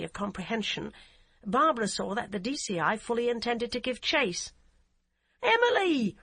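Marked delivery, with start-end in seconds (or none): 5.4-6.2 high, loud urgent shout of a name. A narrator's reading. Barbara yells at Emily to stop, high loud shout. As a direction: yell across the boat to stop her. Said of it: "she shouted".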